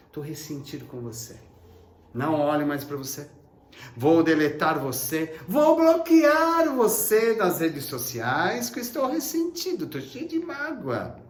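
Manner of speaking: hammed-up grudge voice, rising at the end; resentful believer. Preacher voicing a resentful believer, mock sulky.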